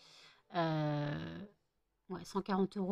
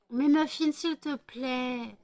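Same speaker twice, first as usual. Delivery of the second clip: exasperated plea; 4 semitones higher, slower than usual. Real, not acted. Telling off the dog.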